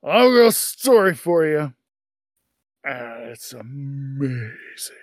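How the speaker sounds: put-on slow, slurring drunk boast; drunk man. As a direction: drag it out like a tipsy patron. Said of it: "pretty well into his cups".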